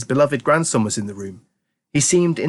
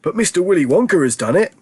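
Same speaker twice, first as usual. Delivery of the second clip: put-on fond old grandpa; 8 semitones higher, 4 dB louder than usual. A narrator's reading. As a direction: savour the words like an old grandpa. Grandpa Joe voiced.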